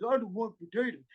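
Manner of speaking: fast, weighed-down no to potatoes; heavy refusal. Shown as a demonstration. Speaker showing the heaviness of negative words. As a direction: let the heaviness sink in. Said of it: "you're getting this heaviness".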